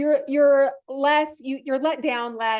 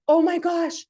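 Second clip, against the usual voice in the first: bursting with delighted surprise, pitched up; retelling a happy weigh-in with gleeful excitement; thrilled; 3 semitones higher than usual. Retold or imitated. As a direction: gush like the scale just made your day. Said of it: "I was like".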